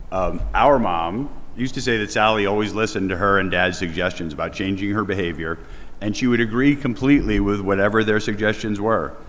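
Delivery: projecting loudly to the whole room. Real, not acted. Son at his mother's memorial, projecting loudly to the mourners. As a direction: speak up big so the back rows hear. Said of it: "I have a loud voice, I can yell".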